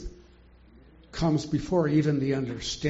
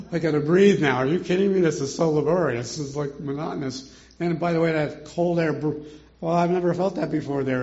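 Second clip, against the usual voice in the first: louder, fussy put-on baby voice; newborn baby complaining; 4 dB louder than usual. Preacher voicing a newborn who hates breathing, mock loud complaint. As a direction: gripe like a baby who just had to start breathing.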